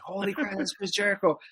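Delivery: a lightly voiced starstruck girlfriend; girlfriend's gasp. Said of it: "her eyes get open".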